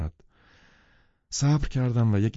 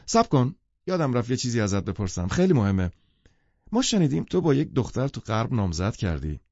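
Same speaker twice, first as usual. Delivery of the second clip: commanding call; 3 semitones higher than usual. Acted. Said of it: "دیزی آمرانه گفت".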